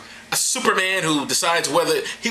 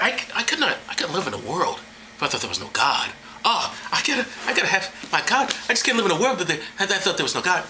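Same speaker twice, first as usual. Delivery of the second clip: mocked believer; 3 semitones higher than usual. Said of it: "people who say".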